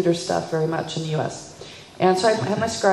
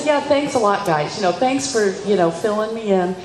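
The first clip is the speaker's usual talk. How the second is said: sarcastic thanks. Retold or imitated. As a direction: thank them without meaning it. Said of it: "I said".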